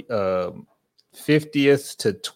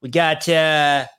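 mock Boston announcer voice, slowed; hammed-up Boston sportscaster; Boston accent; 2 semitones higher than usual. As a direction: lay on a Boston preview-host accent. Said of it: "What was that, uh, accent?".

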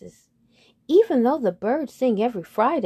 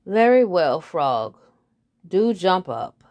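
haughty head bird; 5 dB louder than usual. Acted.

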